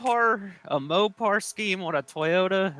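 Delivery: disgusted disbelief. Real, not acted. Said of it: "that just hurts my soul right there".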